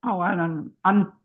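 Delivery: talking while chewing food; words muffled by chewing. Real, not acted. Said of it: "I'm chewing and not thinking".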